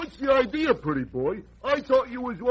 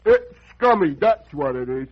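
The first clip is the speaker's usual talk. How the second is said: indignant outburst; 6 semitones lower, 5 dB louder than usual. Acted.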